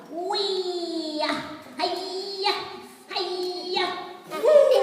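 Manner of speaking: high gleeful flying cries; excited. Acted. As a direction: whoop like a child flying. Acting out flying like bird.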